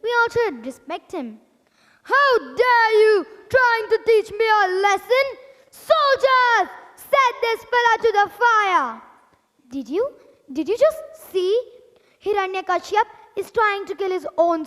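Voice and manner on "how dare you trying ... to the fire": a hint of a tyrant ordering soldiers; mild angry command. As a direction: order the guards, lightly raised. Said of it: "his cruel father".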